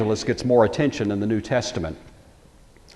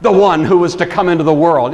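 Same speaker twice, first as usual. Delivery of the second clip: believing exclamation; 3 semitones higher, 6 dB louder than usual. Retold or imitated. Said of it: "went from skeptic to believer".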